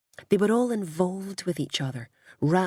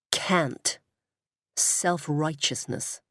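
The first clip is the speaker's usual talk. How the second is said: put-on American accent; much slower than usual. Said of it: "Her accent sounded much more American now".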